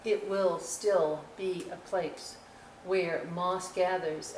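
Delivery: storybook poem reading. Acted. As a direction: read it like a gentle nature poem.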